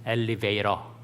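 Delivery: 엘리베이터 said as 엘리베이러, t flapped like r; 미국식 발음 시범. Retold or imitated. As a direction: mom modelling 엘리베이터 American-style for her child. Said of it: "이제 엄마 따라서 해봐". (미국식으로 굴려서 '엘리베이러')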